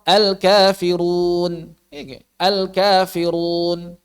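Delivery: "al-kafirun" drawn out slowly on a held tone; thick ro, thin long vowel. Shown as a demonstration. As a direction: stretch the "run" of "al-kafirun", heavy r into a light long u. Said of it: "Roknya tebal. Madnya tipis, itu susah".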